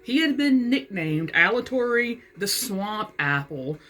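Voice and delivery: measured read-aloud with phrase-by-phrase pauses; story narration. A narrator's reading. Author reading her satirical novel to viewers, measured narration. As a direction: read it out carefully as book prose. Reads aloud from own book.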